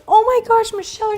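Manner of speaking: hammed-up tearful cry; tearful woman. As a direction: mimic overwhelmed, weepy relief. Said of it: "wiping their eyes".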